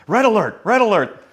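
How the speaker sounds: high, loud laughing alarm call; excited alarm. Retold or imitated. Reading the cast's group text about Sondheim, excited and laughing. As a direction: announce it like a siren, laughing. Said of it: "the group text is".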